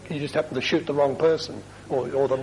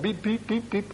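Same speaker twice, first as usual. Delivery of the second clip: quick, high little beeps; imitated warning beeps; 5 semitones higher, 3 dB quieter than usual. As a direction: beep like a dashboard warning. Imitates a warning light beeping.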